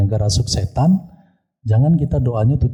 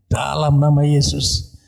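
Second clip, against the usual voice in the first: slow, pitched-up exorcism command; agak kencang; 4 semitones higher, slower than usual. Retold or imitated. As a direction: draw out the command firmly, as if casting out a demon. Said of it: "memang saya rap agak kenceng". (perintah pengusiran setan, agak kencang dan lambat)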